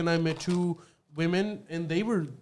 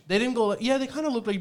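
ordinary talk, nothing marked

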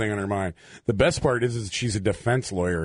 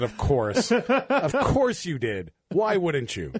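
sarcastic; 5 semitones higher, slower than usual. Retold or imitated. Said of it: "I said".

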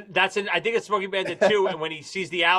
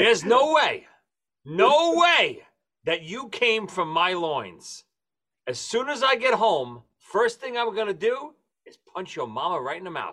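Buford T. Justice impression; 2 semitones higher than usual. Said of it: "I have to read it so I get the quote perfect".

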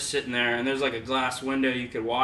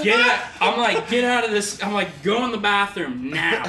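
urgent commands; 6 semitones higher, 5 dB louder than usual. Retold or imitated.

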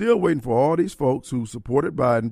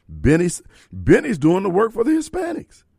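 higher, louder angry shout; 7 semitones higher, 4 dB louder than usual. Real, not acted. Radio host blasting a local leader, shouting. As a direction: call him out at full voice. Host ranting about betrayal.

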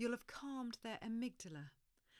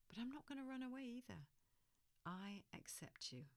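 quiet acceptance; 3 semitones higher, 3 dB quieter than usual. Shown as a demonstration. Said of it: "The message you're sending is".

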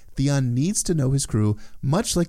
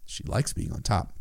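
sly whisper; 2 semitones lower, 5 dB quieter than usual. Acted. Sly punchline after high retort.

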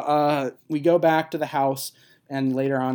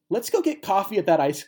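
mocking; 6 semitones higher, 5 dB louder than usual. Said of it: "the weirdest line ever is spoken".

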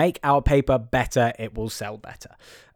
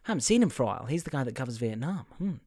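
quiet mumbling; 9 dB quieter, faster than usual. Retold or imitated. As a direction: muse it quietly like a hunch you keep to yourself. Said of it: "He's like".

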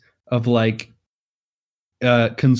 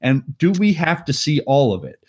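mock exasperation; 4 semitones higher than usual. Viewer fed up with a long walking scene, mock exasperated. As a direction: complain as if it will never end.

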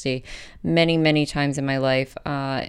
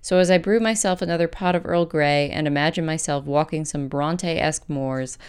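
measured, scripted personal essay read aloud; polished podcast essay narration with deliberate pauses. Acted. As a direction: read your essay out in composed, neatly phrased sentences. Resumes reading the essay.

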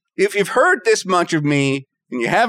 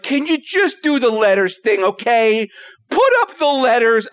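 strained politeness, pitched up on the last demand; supposedly very nice. Retold or imitated. Patient asking eye doctor for the letters test, strained niceness. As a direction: plead with thinly veiled impatience. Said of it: "I say it very nicely".

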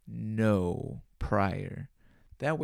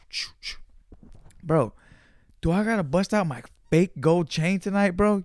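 louder, higher, pumped bro voice; hyped text read; 5 semitones higher, 5 dB louder than usual. Retold or imitated. Texting his boy before the concert, loud and hyped. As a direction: hype it up like a party call.

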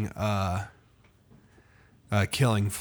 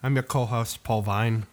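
put-on Irish accent. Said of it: "that was supposed to be kind of like an Irish accent".

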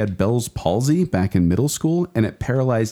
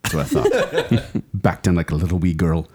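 put-on Irish accent. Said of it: "I'm gonna talk like this the entire time".

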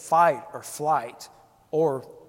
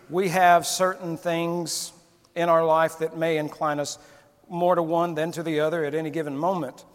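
normal talking voice

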